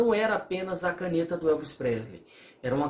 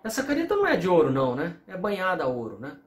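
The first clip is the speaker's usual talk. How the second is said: complaining to the seller; 2 semitones higher, faster than usual. Retold or imitated. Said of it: "falo assim".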